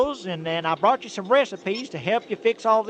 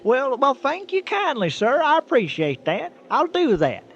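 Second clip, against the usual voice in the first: louder and higher, grinning thanks; cheerful goodbye; 6 semitones higher, 5 dB louder than usual. Acted. Trucker thanks the aliens and waves goodbye, cheerful and loud. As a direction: wave them off happily.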